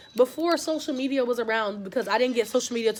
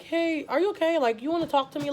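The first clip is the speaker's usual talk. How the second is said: retold kindly approach, pitched up; gentle check-in; 4 semitones higher than usual. Retells kindly approaching the new girl.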